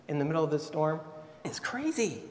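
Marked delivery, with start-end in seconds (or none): 1.4-2.2 breathy stage whisper, voice dropped right away. Real, not acted. Preacher leans in to the congregation, whispering. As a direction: hush it like a secret. Preacher stresses Peter's madness.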